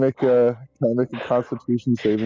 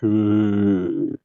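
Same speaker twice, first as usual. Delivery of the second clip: zombie groan. Acted. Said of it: "you hear zombie groans too".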